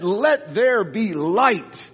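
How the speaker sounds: slow, solemn "Let there be light."; voice of God. Retold or imitated. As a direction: intone it slowly like a creator's command. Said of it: "he said".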